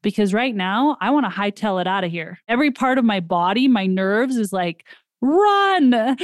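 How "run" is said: high, drawn-out mock cry of alarm; urgent cry. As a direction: call it out high like panicked nerves. Nerves voiced as screaming to flee.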